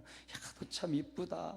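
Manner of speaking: softly voiced praise to a plant; liebevolles Lob. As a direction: admire it under your breath, lightly acted. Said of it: "막 그러면 이런 나무와 식물은".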